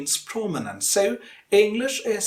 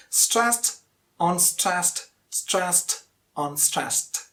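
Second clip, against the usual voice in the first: "stressed" raised, "unstressed" dropped, falling away; alternating stress pattern; much slower than usual. Shown as a demonstration. Teacher shows the English rhythm pattern, alternating stress. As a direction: beat out strong "stressed", weaker "unstressed". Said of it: "That's the pattern of English".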